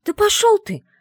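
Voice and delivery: loud, high angry outburst; furious shout. Acted. Heroine yells at the mage in fury. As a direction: fling it at him, shouting.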